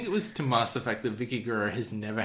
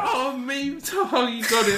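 squeaky, much higher giddy voice with a laugh; jolly high-pitched Big Show; 5 dB louder than usual. Retold or imitated. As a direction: play him gleefully delighted, voice way up. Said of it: "he's like".

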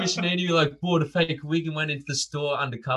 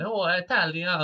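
mock Italian; 3 semitones higher than usual. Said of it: "he went".

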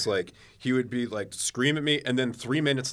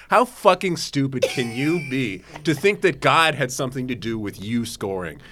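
dad's rant; 6 dB louder than usual. Retold or imitated. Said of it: "these were his exact words".

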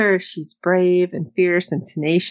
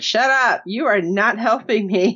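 mildly sarcastic retort; mock exasperated brush-off, lightly acted; a touch of sarcastic protest; 3 semitones higher than usual. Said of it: "she said it very sarcastically".

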